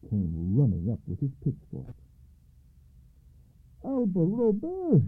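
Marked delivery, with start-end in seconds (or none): 3.8-5.0 high, slow called-out name; shouting a name. A narrator's reading. Farmer Andre shouts at Alba from the haystack. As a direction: call him out angrily. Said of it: "he shouted".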